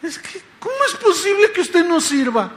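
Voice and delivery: high, whiny mock sobbing; imitated crying. Crying woman protests to the pastor, imitated tearful wail. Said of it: "la señora llorando dice".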